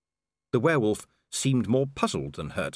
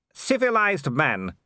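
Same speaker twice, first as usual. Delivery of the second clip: shouted mockery; 6 semitones higher, 3 dB louder, slower than usual. A narrator's reading. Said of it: "he shouted".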